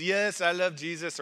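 imitating a Puerto Rican speaker, poorly; rough mock Puerto Rican English; bad Puerto Rican accent. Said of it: "that's a really bad Puerto Rican accent".

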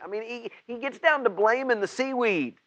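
high, quick disbelief; can you believe he blamed the seaweed; incredulous. Real, not acted. Preacher to church, incredulous at Jonah blaming seaweed.

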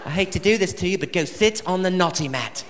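softly apologetic nanny punishment; mild English nanny voice, soft; English nanny, gently. Retold or imitated. Comic playing the Super Nanny giving Thomas the naughty mat, in an English accent. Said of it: "she never loses her cool".

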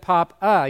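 "pop-a" with a clear uh at the end. Shown as a demonstration. Explaining how it would be written, "pop-a" said as pop-uh. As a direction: say "pop-a" as pop-uh, the last vowel separated. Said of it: "It makes the uh sound".

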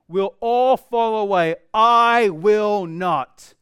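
slow and loud, chest out; proud boast. Acted. Peter boasting to Jesus, slow proud declaration. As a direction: insist on it with pride.

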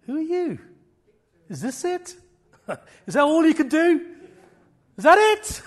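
scornful high taunting with laughter; mocking taunt. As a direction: laugh in the face of the enemy. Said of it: "I just laugh at him now".

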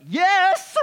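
high, loud eager yes; excited yes. Pretend. Scrolling viewer hooked by a hottest-body post, excited yelp. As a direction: jump at the bait, thrilled.

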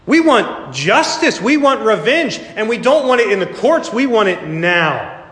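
high, insistent demand for revenge; mock vengeful crowd. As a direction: voice the crowd that wants payback now. Voicing the world's demand.

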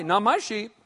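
muttering hireling. Retold or imitated.

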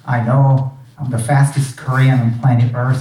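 usual speaking voice

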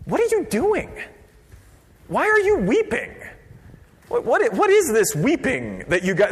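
high-pitched baffled demand; incredulous questioning. Acted. Leaders to the weeping crowd, incredulous. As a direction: pitch leaps up in disbelief. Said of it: "all of a sudden they're like".

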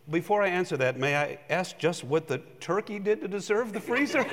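the parrot's polite question, breaking into laughs; punchline through laughter. Retold or imitated. Pastor tells the parrot joke's punchline to the congregation, laughing through it. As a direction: deliver the punchline while cracking up. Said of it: "And the parrot said this".

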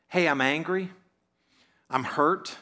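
evenly, without raising the voice; calm voice. Shown as a demonstration. Preacher showing the church a calm reply. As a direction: admit the hurt calmly. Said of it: "in a calm voice".

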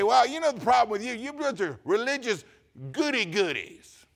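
hammed-up scorn from the pothead coworker; imitating an irritated coworker sneering; mock angry coworker. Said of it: "He'd get angry".

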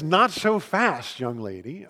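slow, firm, rising call of "Not so fast"; a hint of a commanding Jesus, drawn out; Jesus stopping her. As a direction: halt her gently but firmly. Jesus stops the hiding woman.

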